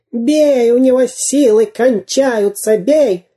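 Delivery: high-pitched egging on; urgent wailing. A narrator's reading. Дырка urges the captain on from the ground, wailing. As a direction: cry out urgently to attack. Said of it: "голосил Дырка".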